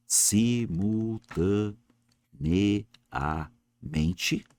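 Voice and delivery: Simultaneamente said very slowly, every syllable stretched out; drawn out. Shown as a demonstration. Teacher showing the class the adverb, slowly and quietly. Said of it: "é mesmo que eu falar simultaneamente".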